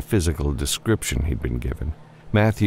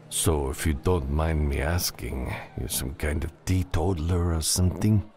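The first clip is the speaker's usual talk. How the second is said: lightly voiced bartender, a touch softer; amused saloon bartender; 3 dB quieter than usual. Bartender teasing an out-of-town customer, lightly amused. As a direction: play a wry barkeep lightly.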